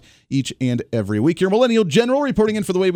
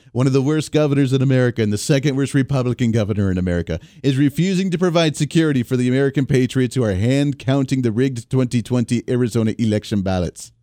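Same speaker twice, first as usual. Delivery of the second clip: a light Trump impression, barely shifted from his own voice; a hint of a Trump delivery; Donald Trump voice; 3 semitones lower than usual. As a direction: read it the way Trump would, only lightly put on. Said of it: "I gotta do it in the Donald Trump voice".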